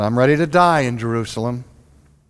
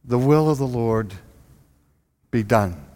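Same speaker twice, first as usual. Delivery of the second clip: resigned, pious; 4 semitones lower than usual. Retold or imitated. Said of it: "And we said".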